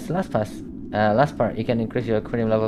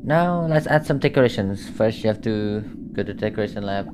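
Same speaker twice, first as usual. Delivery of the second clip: posh voice; 3 semitones lower than usual. Acted. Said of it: "that guy have a really posh voice".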